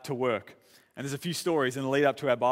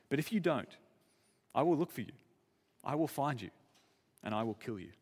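Liam Neeson. Retold or imitated. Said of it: "Liam Neeson is on the phone".

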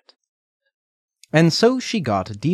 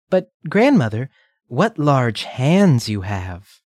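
put-on little girl voice; 3 semitones higher, 4 dB louder than usual. Redcap questions grandmother.

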